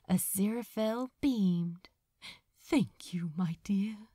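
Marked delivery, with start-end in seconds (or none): 2.6-4.1 grateful whisper. Acted. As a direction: whisper it, moved. Touched angel thanks Crowley.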